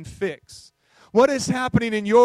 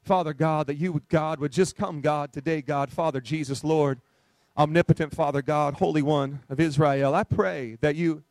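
filler prayer parody; 4 semitones lower than usual. Retold or imitated. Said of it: "we just begin to put a filler in there".

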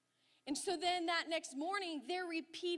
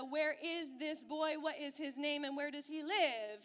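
mock mama bear anger; 5 dB louder than usual. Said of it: "the righteous anger".

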